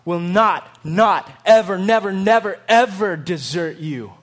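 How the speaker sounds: loud, building never ever; emphatic vow. Acted. Preacher voicing God's promise, loud and building. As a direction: pile up the nevers with rising force. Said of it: "he says".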